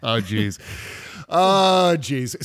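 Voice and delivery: drawn-out upper Midwest "Oh, jeez" with long round "Oh"; upper Midwest accent. Shown as a demonstration. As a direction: say "Oh, jeez" like a Minnesotan. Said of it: "that's my upper Midwest accent".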